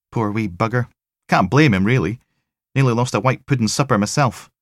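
dry sympathy from the tech; wry female tech. Acted. Tech telling Logan about the sick pathologist, wry.

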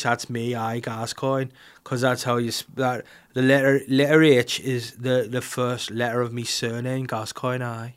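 put-on footballer voice, halting; comic regional impression; Paul Gascoigne. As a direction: bumble through an explanation in character. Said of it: "if Paul Gascoigne played Buckles".

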